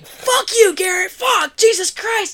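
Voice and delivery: high-pitched startled outburst; mock outraged swearing. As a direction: imitate friends cursing a prankster in a high voice. Everyone swears at prankster who scared them.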